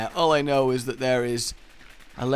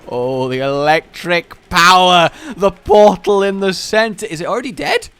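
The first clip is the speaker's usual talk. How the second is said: excited shout; 6 semitones higher, 11 dB louder than usual. Real, not acted. Excited at effect.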